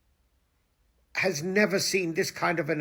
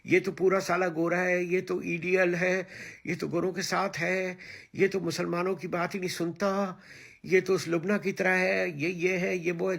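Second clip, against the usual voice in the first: fast, higher sneering mock voice; rapid, higher mock gossip; mocking his critics; 4 semitones higher, much faster than usual. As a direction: parrot the critics' gossip quickly. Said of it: "तुम सब मुझे कहते थे".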